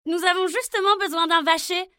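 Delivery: voix aiguë et forte, empressée; princesses ravies. Acted. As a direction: saute sur l'occasion. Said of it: "dirent les jeunes filles". (jeunes filles qui l'engagent avec entrain)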